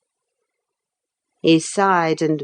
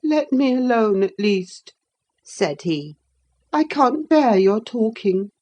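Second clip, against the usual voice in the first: put-on peevish boy; 6 semitones higher than usual. Linton peevish.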